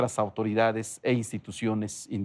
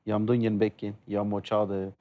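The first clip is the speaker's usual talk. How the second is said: an earnest greeting spoken in his native Sierra Norte language; in his mother tongue. Real, not acted. Guest thanks the host in his mother tongue, an earnest native-language greeting. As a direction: thank the host warmly in your own tongue. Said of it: "te acabo de dar las gracias en mi lengua materna".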